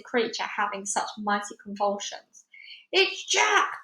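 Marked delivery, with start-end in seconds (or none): 2.9-3.8 giant's bellow. A narrator's reading. Giant spotting Jack in his nightmare, bellowing. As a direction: call out the dreaded name, pitched high. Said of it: "bellowed the flesh lump eater".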